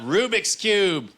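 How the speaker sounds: very high, slow drawn-out shout; yelled answer. Retold or imitated. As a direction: drag out Rubik's Cube with confidence. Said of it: "She'll yell out".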